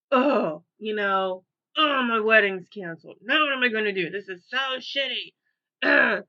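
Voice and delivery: imitating a whiny, teary lament; hammed-up self-pity, slowing at the end; mock upset bride. Bride mocking her own cancelled-wedding despair, teary whine. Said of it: "the moment to moment".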